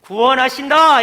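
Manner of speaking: loud, ringing announcement with a falling end; proclaiming salvation. Acted. Preacher repeating the prophets' promise to the congregation. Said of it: "이렇게 선포해요".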